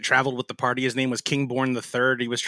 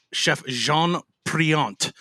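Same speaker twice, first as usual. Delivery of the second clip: put-on French accent; much slower than usual. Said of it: "I did his stupid French accent".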